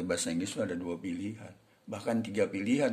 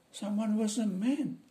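servant voice; 11 semitones higher, slower than usual. Acted. Servant answering his boss.

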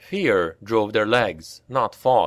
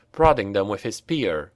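plain reading voice

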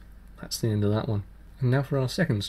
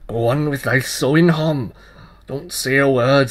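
louder hushed command; urgent child voice; 8 dB louder than usual. Acted. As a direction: hurry him, conspiratorial. Child hurries the tailor.

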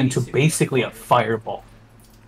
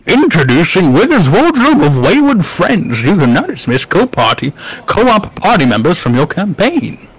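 put-on old wizard voice; 4 dB louder than usual. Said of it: "I like the voice that you do. That's like a perfect wizard voice".

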